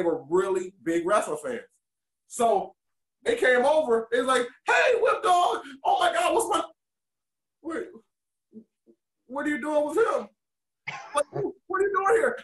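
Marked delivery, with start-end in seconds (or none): 4.7-12.4 put-on excited kid shout. Little fan kids shouting at their wrestling hero, high excited yelling. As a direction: yell like a starstruck kid seeing his hero.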